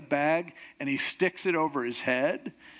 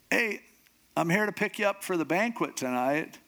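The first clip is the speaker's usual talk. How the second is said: higher, upbeat doorstep greeting; cheerful caller; 5 semitones higher than usual. Acted. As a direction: call out brightly to fetch someone. Cheery escort calls at the door.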